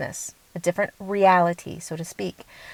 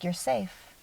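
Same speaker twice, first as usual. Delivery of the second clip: reassuring higher self; 10 dB quieter than usual. Retold or imitated. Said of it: "higher self will say something like".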